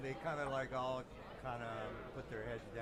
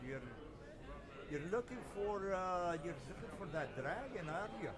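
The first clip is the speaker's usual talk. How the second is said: slow, sly Irish lilt pitched up; sly Irish accent; 6 semitones higher than usual. Acted. Deformed lady slyly probes the party, Irish accent. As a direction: tease them in an Irish accent. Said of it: "And she's got an Irish accent".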